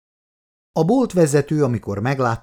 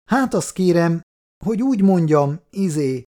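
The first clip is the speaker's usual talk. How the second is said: higher-pitched, hesitant hedging; evasive; 7 semitones higher, 4 dB louder than usual. A narrator's reading. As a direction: dodge an awkward question, with pauses. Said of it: "igyekezett Péteri kitérni a kényes kérdés elől". (kitérően, habozva)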